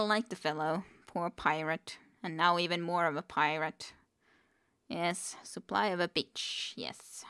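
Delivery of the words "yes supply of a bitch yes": breathy giggly whisper. Real, not acted. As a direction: whisper the joke. Whispered joke on misreading.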